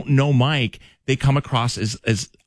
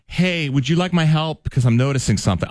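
polite offer of help; 4 semitones higher than usual. Shown as a demonstration. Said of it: "I'll say it like".

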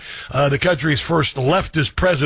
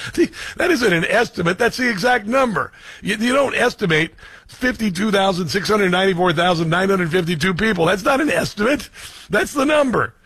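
incredulous mockery; 4 semitones higher than usual. Real, not acted. Mocking the estimate.

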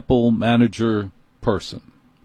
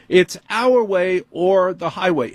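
higher, huffy store manager lecturing; amped-up manager; 8 semitones higher, slower than usual. Retold or imitated. Apple manager scolds the customer, higher and huffy. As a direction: talk down to the customer like a petty boss.

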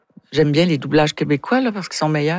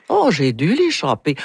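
Russian accent. Shown as a demonstration. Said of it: "je baisse un peu ma voix, puis je module".

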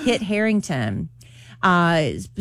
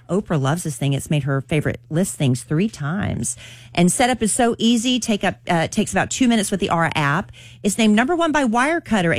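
upbeat radio ad read. Acted. Morning show host reading the sponsor ad, bright ad read. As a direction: sell it like a friendly host ad.

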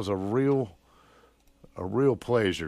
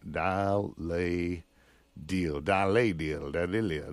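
mock French accent; 2 semitones lower, slower than usual. Radio host playing with the show's name, joking French accent. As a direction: toy with a fake French lilt. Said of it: "This sounds like a French version".

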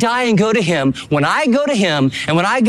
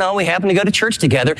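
offhand, perfunctory; faster than usual. Retold or imitated. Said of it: "This isn't, perfunctory".

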